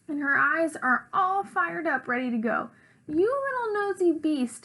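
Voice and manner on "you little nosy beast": angry shout. A narrator's reading. Rosabelle shouts at her nosy brother, angry. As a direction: pitch it up like a furious sister, not full volume. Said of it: "she shouts".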